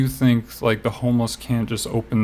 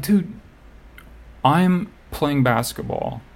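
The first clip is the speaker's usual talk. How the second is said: high, slow, fed-up protest; annoyed pushback at a meddler; exasperated retort; 4 semitones higher, slower than usual. Retold or imitated. Retelling a run-in with a stranger, mock exasperated. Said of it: "And I'm like".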